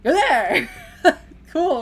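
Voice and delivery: loud delighted exclamation with laugh; excited. Real, not acted. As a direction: burst out with glee.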